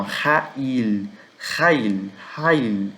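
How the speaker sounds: "rail" as RÁ-il, strong throaty r; "rail" repeated slowly with weight up front; stress on first syllable. Shown as a demonstration. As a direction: hit "ra" and let "il" fall. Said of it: "porque a sílaba tônica tá na primeira".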